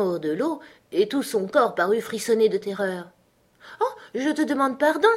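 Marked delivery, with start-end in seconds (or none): 3.8-5.1 put-on high, hasty little-girl cry of apology; cried-out apology. A narrator's reading. Alice fears she has hurt the mouse, high cried apology. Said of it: "s'écria Alice".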